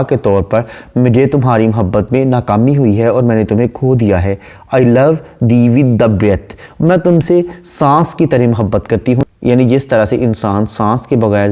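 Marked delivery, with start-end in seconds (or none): 4.8-6.6 slow, measured poem reading; unhurried English verse reading; poem recitation. Shown as a demonstration. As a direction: recite the line slowly, savouring it. Reads poem line slowly.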